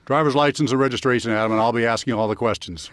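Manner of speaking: lightly voiced police officer. Shown as a demonstration. Sheriff demonstrates for the podcast host how he controls people, police voice. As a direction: speak as an officer taking control. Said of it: "tell me something in the police voice".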